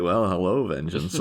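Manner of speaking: lightly flirtatious, softening at the end; a mild imitation of a teasing come-on; Catwoman. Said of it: "Catwoman's flirtatiously going like".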